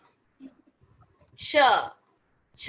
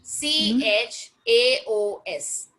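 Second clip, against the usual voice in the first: slow spelling out; 2 semitones lower, much slower than usual. Shown as a demonstration. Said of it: "इसको क्या बोलते हैं".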